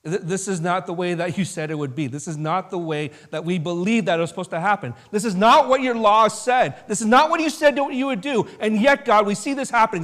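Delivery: Habakkuk shouting his disbelief at God; indignant prophet. Retold or imitated. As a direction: protest like a wronged prophet. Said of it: "Habakkuk is standing there going".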